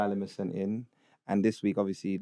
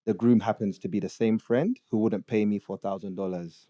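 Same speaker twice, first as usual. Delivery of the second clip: put-on Ugandan accent. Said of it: "read it in a Ugandan accent".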